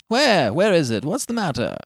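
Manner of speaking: startled awake and alarmed. A narrator's reading. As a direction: fire off questions in alarm. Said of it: "He sat up in alarm".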